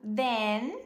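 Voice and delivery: Then met gesloten n aan het eind; closed N. Shown as a demonstration. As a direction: zeg "Then" en sluit af op de n. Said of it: "fechando esse N".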